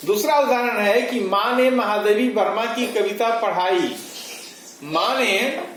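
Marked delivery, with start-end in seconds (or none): 1.2-4.0 महादेवी वर्मा said with extra weight; stress on महादेवी वर्मा. Shown as a demonstration. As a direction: lean on the name महादेवी वर्मा. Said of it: "दूसरे वाक्य में महादेवी वर्मा पर बालाघात है". (महादेवी वर्मा पर ज़ोर)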